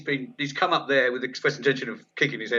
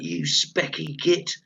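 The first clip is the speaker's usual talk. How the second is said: higher, drawn-out mock heckle; retold heckler shout; 4 semitones higher, slower than usual. Heckler insulting the bespectacled compere, mild mock shout. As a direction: imitate a heckler without really shouting. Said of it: "Someone shouts out".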